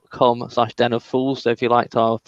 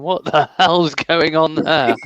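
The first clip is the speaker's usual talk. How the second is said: bewildered interviewer; 3 semitones higher, 3 dB louder, slower than usual. Retold or imitated. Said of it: "that poor interviewer going".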